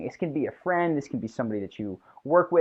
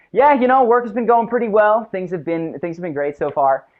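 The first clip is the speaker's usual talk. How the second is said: much higher and louder, mock confident; 6 semitones higher, 8 dB louder than usual. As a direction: greet the boss with booming self-assurance. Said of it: "I'll be like".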